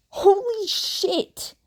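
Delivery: high, stunned whispered curse; shocked whisper. A narrator's reading. Bakugo learns the twins' surname, whispering in shock. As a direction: breathe it out in disbelief.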